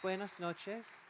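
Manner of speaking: slow, loud Spanish greeting, American accent. Real, not acted. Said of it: "pero mi español". (saludo lento y fuerte con acento estadounidense)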